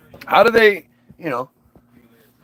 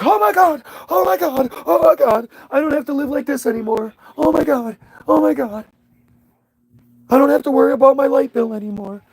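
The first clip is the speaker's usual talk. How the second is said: much higher, fast, giddy repeats; young artist overjoyed at the big call, rushing and high; ecstatic disbelief; 7 semitones higher, faster than usual. Retold or imitated. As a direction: gush like you just escaped poverty. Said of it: "you're just ecstatic".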